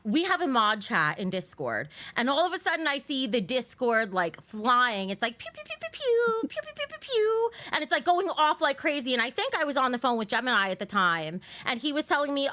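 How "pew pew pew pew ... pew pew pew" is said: high-pitched laser-like pew bursts; rapid "pew" noises. Retold or imitated. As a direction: fire off pews like flying notifications. Imitates flying Discord notifications.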